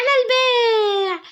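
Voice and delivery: very slow, crying hawker's wail; slow plaintive seller call. Acted. Girl selling clay outside at night, slow crying wail. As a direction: stretch the call out mournfully. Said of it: "عماله تقول صلصال للبيع".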